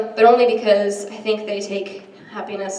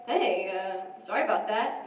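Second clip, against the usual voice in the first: much softer, small sorry; sheepish quiet apology; 14 dB quieter than usual. Retold or imitated. The talkative student apologizing to her anonymous critic, quietly sheepish. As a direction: mumble the apology meekly. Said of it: "so I was like".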